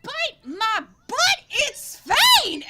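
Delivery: high, slow, thrilled cry; delighted surprise. Acted. Mina Lee spotting old friends, high thrilled cry. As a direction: burst out in joyful recognition. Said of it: "she's like".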